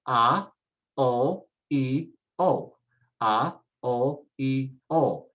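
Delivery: A O E O as separate Spanish vowel sounds, ah, oh, ee, oh; isolated vowels. Shown as a demonstration. Teacher lets students hear the sounds first, isolated vowels. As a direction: say A O E O one pure vowel at a time. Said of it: "let's pronounce the vowels".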